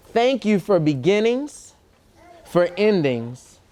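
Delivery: slow, measured picture-book reading with long pauses; reading to children. Acted. Reader shares a love letter to Earth with children, slow storytime reading. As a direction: read it out phrase by phrase for little listeners.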